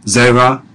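"Zera" with emphasis on ZE; stress on first syllable. Shown as a demonstration. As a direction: put the weight on ZE in "Zera". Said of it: "notice the emphasis on the first syllable".

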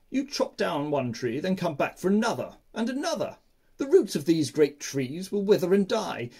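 chattering monkeys. Acted. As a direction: chatter excitedly like a troop of monkeys. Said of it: "They chattered to the sleeping man".

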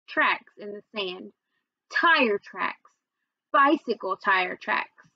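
put-on calm storytelling read to children; story narration. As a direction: read the chapter aloud to the class. Teacher reads chapter aloud.

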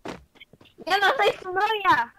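high, slow, drawn-out protest; indignant yell. Real, not acted. Teased boy denies being girlfriend, indignant yell. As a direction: stretch the denial into a yell.

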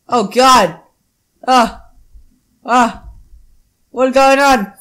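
loud, hammed-up screams of alarm; playful panic, loud bursts; alarmed yelling. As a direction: cry out as the game goes haywire. Game screen glitches, player yells.

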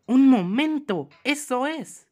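loud, high burst of discovery; sudden realisation. Real, not acted. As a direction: cry out as the answer hits you. Sudden realisation of puzzle answer.

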